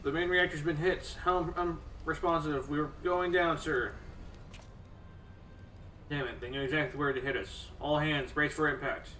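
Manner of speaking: shouting orders. Acted. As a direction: bark orders as the ship is hit. Crew shouting during airship attack.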